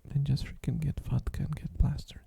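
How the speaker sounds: dry sarcastic whisper. Acted. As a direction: whisper it with mock advice. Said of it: "I'm being sarcastic".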